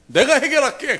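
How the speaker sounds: high, loud imitation of the son; a boy's earnest promise, lightly voiced; high, pushed kid voice; imitating son. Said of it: "걔가 뭐라고 그러냐면".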